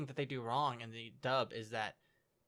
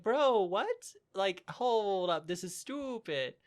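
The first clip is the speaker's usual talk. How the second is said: higher-pitched, incredulous bro; exasperated disbelief; 5 semitones higher, 3 dB louder, much slower than usual. Retold or imitated. Co-host reacting to Soma's reckless bets, exasperated disbelief. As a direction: stretch it out in baffled protest.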